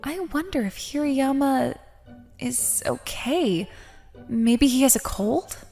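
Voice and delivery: soft, slowing private thought; quiet, hesitant concern; worried musing. Acted. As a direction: wonder under your breath, concerned. Privately worrying about classmate.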